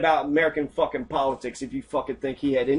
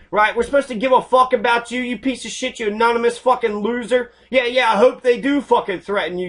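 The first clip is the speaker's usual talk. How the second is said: angry rant; 5 semitones higher, 3 dB louder than usual. Real, not acted. Angry rant at online troll.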